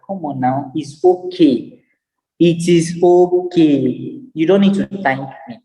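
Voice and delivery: slow, drawn-out okay, lightly voiced; a hint of an embarrassed helper brushing it off; modest reassurance. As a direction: wave off the thanks gently and slowly. Modest reply to someone thanking.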